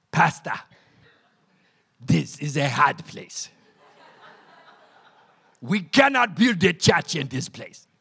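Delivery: a hint of a solemn elder lamenting; village elder. Village elders speaking in quote.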